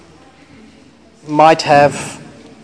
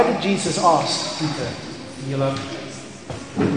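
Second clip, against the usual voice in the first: hushed question; 7 dB quieter than usual. Acted. Whispered question over music.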